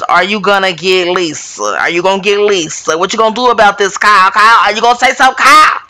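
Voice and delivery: pushy, needling demand to her sister; voicing Kathy's glare. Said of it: "Kathy's glare at Kyle in that moment was".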